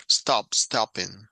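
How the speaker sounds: stopping said slowly as stop-ping; slow demo, a small break inside stopping; doubled consonant. Shown as a demonstration. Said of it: "una pausita y otra". (stopping, lento, con una pausita en la p)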